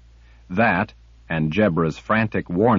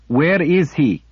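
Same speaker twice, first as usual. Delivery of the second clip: harsh and higher; furious demand; 7 semitones higher, 4 dB louder than usual. A narrator's reading. Kara demanding the sliff's master, furious. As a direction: demand it through rage.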